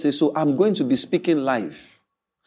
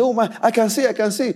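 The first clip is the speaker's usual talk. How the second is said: acted burst of joyful amazement, higher; excited exclamation; 4 semitones higher than usual. Preacher voicing a healed man who can suddenly see, excited. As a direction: exclaim it as someone newly healed.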